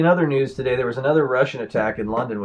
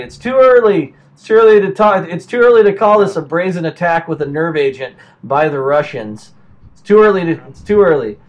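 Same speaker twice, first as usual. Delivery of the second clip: louder, scoffing repetition; sarcastic mockery; 2 semitones higher, 6 dB louder than usual. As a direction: throw the official's words back with scorn. Mocking the Home Secretary's statement.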